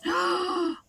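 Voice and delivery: high, loud stammering panic; panicked cry. Acted. Mouse panics and cries to the others to hide. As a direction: blurt it out in terror.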